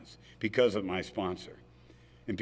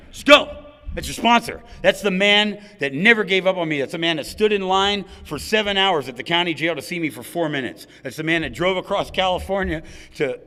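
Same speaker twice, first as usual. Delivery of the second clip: loud, high, passionate declaration, voice straining; emotional outburst; 7 semitones higher, 5 dB louder than usual. Real, not acted. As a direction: pour it all out about the man who saved you. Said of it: "man, I get real emotional".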